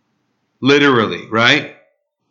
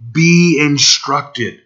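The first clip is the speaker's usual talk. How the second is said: pleading. Acted. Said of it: "As he's pleading with them".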